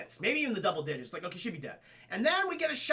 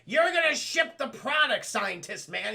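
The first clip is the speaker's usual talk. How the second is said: imitating Sharon Stone; 4 semitones higher, 4 dB louder than usual. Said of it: "Sharon Stone's like".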